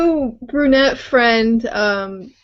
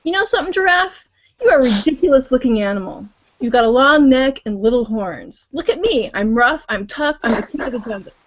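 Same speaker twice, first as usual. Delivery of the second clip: boastful lion, pitched up at the start. Acted. Lion taunting the giraffe, boastful mock lion voice. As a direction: puff up and brag at the giraffe. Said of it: "Lion says".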